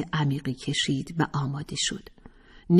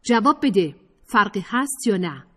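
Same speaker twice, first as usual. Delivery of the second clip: louder, higher pressing demand; insistent demand; 5 semitones higher, 3 dB louder than usual. Acted. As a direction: press her hard for an answer. (با اصرار و تندی)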